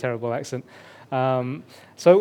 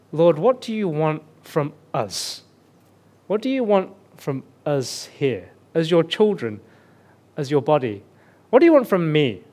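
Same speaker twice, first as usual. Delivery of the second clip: earnest prayer. Retold or imitated. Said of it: "the question that kept coming back".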